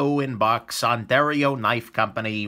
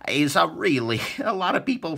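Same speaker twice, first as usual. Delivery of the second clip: imitating Frankie; 4 semitones higher, 4 dB louder than usual. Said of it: "as Frankie ... would say".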